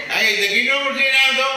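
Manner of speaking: high, loud laughing falsetto; hammed-up woman on the phone; high mock woman's voice. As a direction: squeal it like a flustered woman. Woman's voice in retold call.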